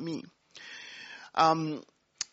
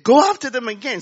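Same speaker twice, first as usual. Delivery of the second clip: command; 5 semitones higher, 9 dB louder than usual. Retold or imitated.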